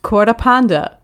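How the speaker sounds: "Quarter panda" with dropped r in a Cockney try; Cockney attempt. Shown as a demonstration. Player trying the game's phrase, Cockney "Quarter panda". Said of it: "speaking the phrase with a Cockney".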